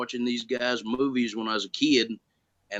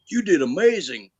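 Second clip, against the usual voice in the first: retold amazed praise, higher and louder; impressed praise; 5 semitones higher, 7 dB louder than usual. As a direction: exclaim it as an impressed colleague would. Retelling a colleague's praise after scene.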